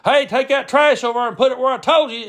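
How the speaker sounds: high, loud hectoring order; Brad impression. Brad orders the kid to move the trash, loud impression. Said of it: "he was always loud".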